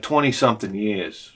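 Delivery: mumbled reply. Retold or imitated. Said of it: "he says something like".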